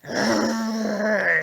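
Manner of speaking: mock monster growl; a grumbled growl of disgust. A narrator's reading. Fury growls at Percy in mild mock disgust. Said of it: "she growled".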